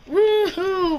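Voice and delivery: gleeful whoop. Acted. Coyote scaring chickens.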